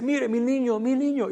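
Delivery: high, contained excitement; retold urgent mother. Mother shows the pastor her child, retold urgency.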